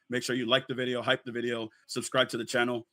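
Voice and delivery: slightly hoarse, worn-out voice. Real, not acted. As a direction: talk through a lost voice. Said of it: "My apologies if I sound kinda hoarse".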